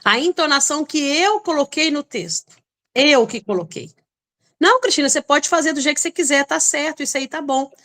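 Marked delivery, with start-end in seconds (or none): 4.6-7.7 falsely agreeable. Retold or imitated. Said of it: "já tô irada".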